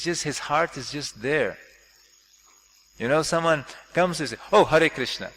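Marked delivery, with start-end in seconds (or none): 4.5-5.3 offhand greeting. Retold or imitated. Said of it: "without any consideration".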